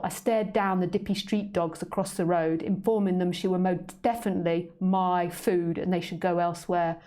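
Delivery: put-on a cat narrating its tale in a London accent; story narration. A narrator's reading. Author reading her cat's tale aloud, cheeky narration. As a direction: read the cat's story with relish.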